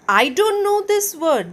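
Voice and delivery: high, slow squeaky elf voice; squeaked. Acted. Elf squeaking over Patrick's homework. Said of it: "the elf squeaked".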